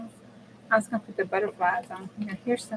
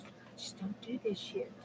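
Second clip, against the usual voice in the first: whisper; 18 dB quieter than usual. Real, not acted. Crafting vlogger confessing to her viewers, whispered. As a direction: drop to a secret whisper.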